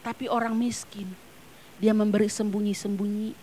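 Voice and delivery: hushed, breathy preacher whisper. Real, not acted. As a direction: lean in and whisper it. (berbisik pelan)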